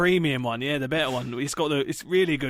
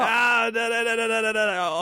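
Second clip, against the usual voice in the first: shouting no; 6 semitones higher than usual. Pretend. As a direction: yell no over and over. Caller shouting denial.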